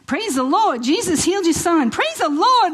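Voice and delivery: imitating a nurse's joyous high shouts, rising each time; joyful yelling. Nurse bursting in with the healed baby, jubilant mock yell. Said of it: "she's yelling out".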